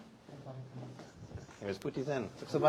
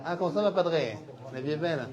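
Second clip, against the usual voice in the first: jovial greeting; 4 semitones higher, 4 dB louder than usual. Real, not acted.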